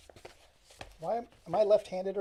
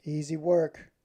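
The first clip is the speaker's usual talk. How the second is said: louder, bitter rant; a lonely man at a remote post, snapping in frustration; 5 dB louder than usual. Acted. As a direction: spit the words out, losing it. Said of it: "He was beginning to snap again".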